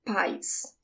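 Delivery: "pais" with the weight on "pa"; stress on first syllable. Shown as a demonstration. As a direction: lean on the "pa" in "pais", letting the end fall. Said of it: "The emphasis is on the pa".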